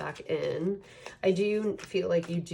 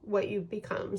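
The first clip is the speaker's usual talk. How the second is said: choked up; 4 semitones higher than usual. Real, not acted. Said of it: "I'm getting emotional".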